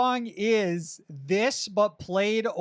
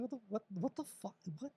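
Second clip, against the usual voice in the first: mock baffled bandmates; 17 dB quieter, faster than usual. Miserable bandmates react to Steph.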